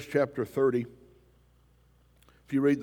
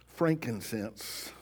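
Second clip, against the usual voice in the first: Frankincense said slowly, each syllable stretched, rising at the end; slow, drawn-out Frankincense; much slower than usual. Shown as a demonstration. Preacher to congregation, pronouncing Frankincense slowly with a rise.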